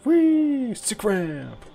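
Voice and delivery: very high gleeful squeal; playful high squeal; gleeful whee. Pretend. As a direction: squeal with delight down the ramp. Skating down a ramp.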